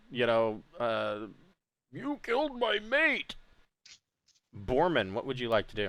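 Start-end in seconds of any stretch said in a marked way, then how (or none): 1.9-3.3 shrill, very high ogre bellow. Voicing an ogre whose mate was killed: ogre bellowing. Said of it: "the other ogre, uh, bellows out".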